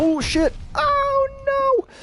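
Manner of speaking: slow, drawn-out whiny wail, pitched very high. Reacting to a sudden setback while playing: whining. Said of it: "I'm whining".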